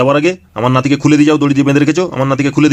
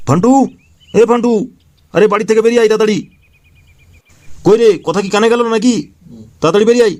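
calling out; 5 semitones higher than usual. Acted. Calling son out of house.

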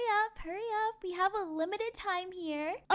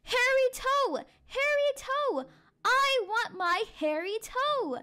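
high, wailing spooky call; hollow monster voice; 7 semitones higher than usual. Acted. Monster in the woods demands its toe, eerie wail. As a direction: call it out like a haunting creature. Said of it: "a hollow voice said".

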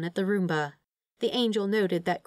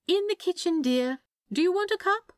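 much higher, sing-song call across the flat; calling from the kitchen; 12 semitones higher than usual. A narrator's reading. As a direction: call out brightly from another room. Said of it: "Aziraphale called from the kitchen".

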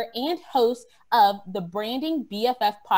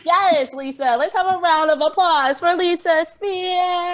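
loud, high crowd cheer imitation; crowd screaming; 8 semitones higher, 7 dB louder than usual. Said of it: "my really whack attempt at trying to, like, sound like a screaming crowd".

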